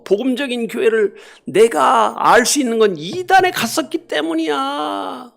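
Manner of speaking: a hint of a remorseful believer; quoted testimony. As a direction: voice a convert's rueful confession. Preacher voicing a testimony quote.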